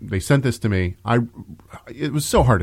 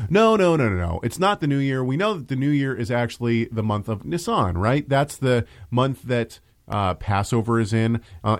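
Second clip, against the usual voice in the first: mock objecting Messianic. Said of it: "cry foul and say".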